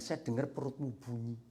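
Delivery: laughing as he delivers the joke; joking quip. Retold or imitated. Preacher joking to a hungry boy on the phone, laughing. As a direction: tease him lightly through a chuckle. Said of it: "Terus saya guyon".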